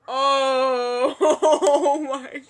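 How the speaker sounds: loud laughing oh my god; laughing hard. Real, not acted. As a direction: crack up while saying it. Bursts out laughing.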